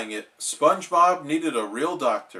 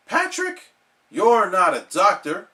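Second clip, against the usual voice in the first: Sandy voice; 4 semitones higher, 4 dB louder than usual. Acted. Sandy scolds Patrick.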